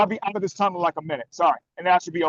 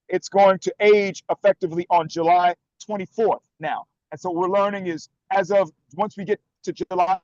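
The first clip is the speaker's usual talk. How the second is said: choppy, cutting-out phone line; breaking up. Real, not acted. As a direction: voice dropping out on a bad connection. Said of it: "You're breaking up".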